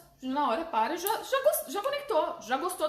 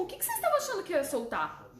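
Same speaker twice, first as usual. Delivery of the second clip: mock innocent; 5 semitones higher, faster than usual. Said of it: "Eu falo".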